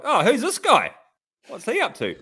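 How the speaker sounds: mock innocent. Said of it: "and I was like".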